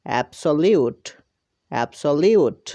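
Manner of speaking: "অ্যাবসলিউট" blended as ab-so-liut, falling at the end; teacher modelling "অ্যাবসলিউট" as a whole word; pronunciation demo. Shown as a demonstration. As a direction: say "অ্যাবসলিউট" carefully for learners, then repeat it alike. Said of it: "সবগুলো একত্রে উচ্চারণ করলে হয়ে যাবে".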